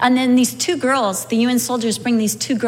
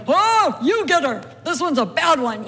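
playful angels; 4 semitones higher than usual. Pretend. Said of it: "there the angels going".

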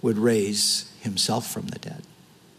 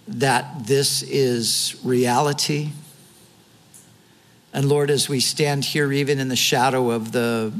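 closing prayer. Acted. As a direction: pray for the congregation, measured and sincere. Pastor leads closing prayer.

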